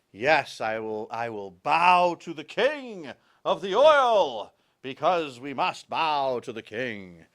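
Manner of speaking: hammed-up servant bowing to a king; mock submissive Trump.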